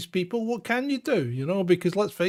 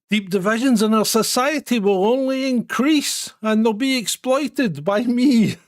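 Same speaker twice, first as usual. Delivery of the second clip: lampoon a smug politician, loud and raised; Anas Sarwar parody; 2 semitones higher, 5 dB louder than usual. Pretend. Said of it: "he goes under the pseudonym, uh, Anas Sarwar".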